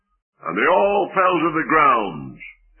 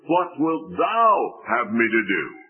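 low, broken plea of a surrendered man; surrendered cry; 4 semitones lower than usual. Acted. Preacher voicing Saul's surrender to the Lord, a broken plea. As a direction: let the voice break in full surrender. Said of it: "That's the voice of a surrendered man".

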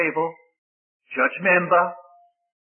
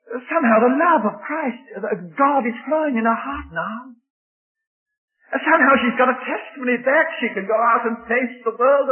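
tearful, rising; 4 semitones higher than usual. Acted. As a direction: voice lifts and cracks with feeling.

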